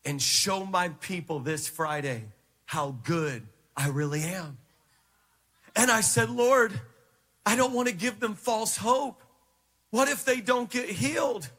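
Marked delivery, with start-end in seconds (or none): 0.0-4.6 low, measured instruction with pauses; voice of God. Retold or imitated. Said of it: "He said". 6.3-11.5 raised-pitch earnest appeal, pushed at the start; worried objection. Retold or imitated. Retold worried objection to God.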